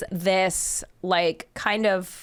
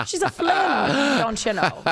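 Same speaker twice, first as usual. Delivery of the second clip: mock Minnesota accent; 4 semitones higher, slower than usual. Shown as a demonstration. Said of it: "that's Minnesota".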